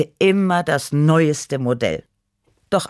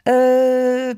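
hesitant um; 10 semitones higher, 6 dB louder than usual. A narrator's reading. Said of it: "nach kurzer Überlegung".

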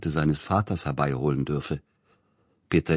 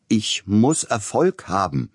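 lauter, höher und langsam herausgeschrien; Schrei; 5 semitones higher, 4 dB louder, slower than usual. A narrator's reading. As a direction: verzweifelt hinausschreien. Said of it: "schrie Sapielnikow". (höher und lauter, langsamer Aufschrei)

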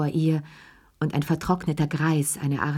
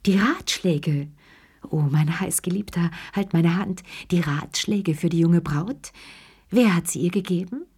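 gasping for breath. Acted. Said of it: "nach Luft ringen".

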